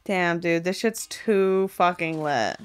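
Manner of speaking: ordinary delivery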